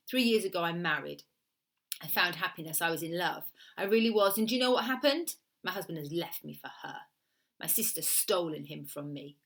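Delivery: lightly voiced Italian woman recounting a grievance; aggrieved Italian woman. Woman explaining why she hates her sister, lightly voiced aggrieved Italian client. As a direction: tell it as the wronged sister, hint of Italian accent.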